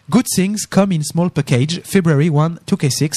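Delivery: slow English with a French accent. Real, not acted. Host reading the keyboard's website aloud, slow French-accented English. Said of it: "de mon accent anglais".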